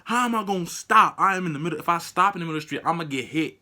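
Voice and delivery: loud, high-pitched disbelief, easing off; indignant protest. Retold or imitated. Driver arguing back in his head, loud and indignant. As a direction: protest loudly, then tail down.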